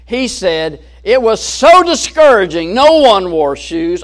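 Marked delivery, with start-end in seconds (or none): 1.0-2.7 mock discouraged salesman. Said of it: "a negative attitude that was somewhat depressing". 2.7-4.0 gloomy version. Acted. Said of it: "negative attitude".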